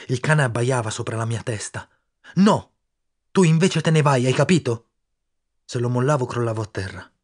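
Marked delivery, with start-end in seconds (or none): 2.4-4.9 loud, high urgent command; boy ordering his friend to go. Acted. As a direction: push him out, desperate. Urging friend to flee.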